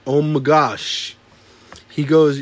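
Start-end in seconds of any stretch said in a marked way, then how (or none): 0.1-1.2 slow, spelled out fully. Shown as a demonstration. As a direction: say it slowly, word by word.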